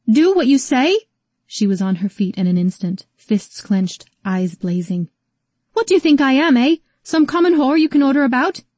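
high, loud furious outburst; furious shout. Acted. Rose rages at Calvin for ordering her, shouting. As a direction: blaze up at him.

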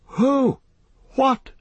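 very high, alarmed cry; shout. A narrator's reading. Frodo rushing round the tree, alarmed shout. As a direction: call out sharply in alarm, pitched right up. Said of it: "shouted Frodo".

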